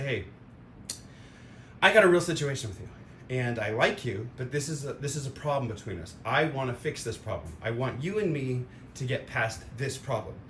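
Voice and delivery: calm honest talk. Retold or imitated. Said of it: "you just say".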